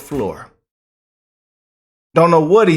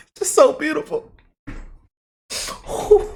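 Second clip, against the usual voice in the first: mock tearful; 13 semitones higher, 3 dB quieter than usual. Mock-tearful over briefing.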